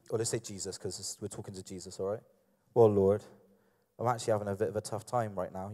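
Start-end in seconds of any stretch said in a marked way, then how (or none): 2.7-5.7 low, fast voicing of a woman's words; a deep-voiced take on Daisy's line; too-deep voice for Daisy. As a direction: drop the voice low to speak for her. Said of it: "Your voice is a bit deep".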